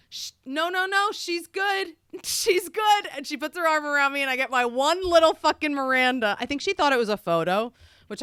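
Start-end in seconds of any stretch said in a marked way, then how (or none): 0.1-3.1 high, slow, laughing no, no; laughing reassurance. Retold or imitated. Star tells the guard to let her stay, laughing. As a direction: wave him off with a giggle. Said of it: "she goes".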